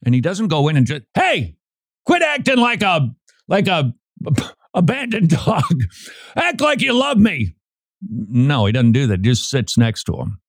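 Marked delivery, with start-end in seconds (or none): 1.1-7.5 high, pleading mock coax of a dog; high-pitched silly plea to a scared dog. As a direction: beg the dog to love you, hammed up. Man coaxing dog, mocking.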